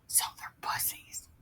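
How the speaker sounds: very soft, voiceless comic aside; whispered aside. Real, not acted. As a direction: whisper it like a private verdict. Hushed aside on the story.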